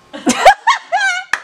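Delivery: loud, very high wail; hammed-up ugly-cry noise; mock sobbing. Maid of honor showing her sobbing face, mock wail. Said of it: "that's my sobbing face".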